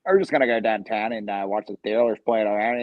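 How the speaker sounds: imitated blue-collar Yinzer talk; hint of a Pittsburgh Yinzer accent. Shown as a demonstration. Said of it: "Yinzer accents".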